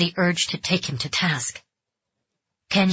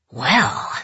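low gruff drawn-out word; gruff stranger voice; 3 semitones lower, 3 dB louder than usual. Acted. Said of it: "a gruff voice resonated".

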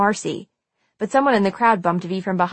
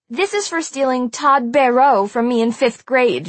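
higher, heated accusation; vengeful; 5 semitones higher, 4 dB louder than usual. A narrator's reading. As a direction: spit out an old grudge mid-fight. Marcy yells while punching Nora.

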